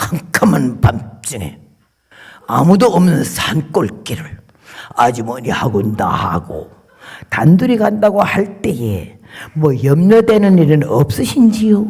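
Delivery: put-on deep hushed voice. Retelling how a driver on a dark road called out: imitating a very low lowered voice. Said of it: "굉장히 저음으로 음성을 탁 낮춰가지고".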